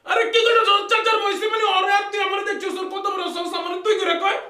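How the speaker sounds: indignant shouting. Acted. Acted quarrel over disrespectful address.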